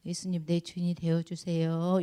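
low, soft model prayer; 나지막한 기도 시범. Shown as a demonstration. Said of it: "이렇게 기도해야 돼요". (낮고 조용하게 기도하듯이)

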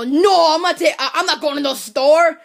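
lightly mocking impression of an annoying man; a hint of a mocking imitation. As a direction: mimic an irritating voice, only lightly put on. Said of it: "come in here with his annoying voice".

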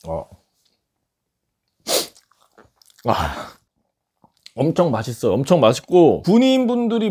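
cheeks full, chewing while speaking until ~2s; Bites chicken at -7. Real, not acted. Seen 0: =.

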